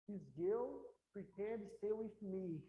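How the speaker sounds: slow, dreamy This girl pretend stay with me; lovestruck guy. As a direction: savour it like a smitten guy. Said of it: "Aí o cara sai de lá apaixonado".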